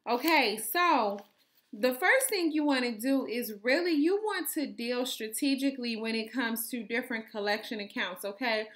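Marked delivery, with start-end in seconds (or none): 1.7-8.7 talking while chewing gum; words round a wad of gum. Real, not acted. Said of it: "I don't know why I start chewing gum".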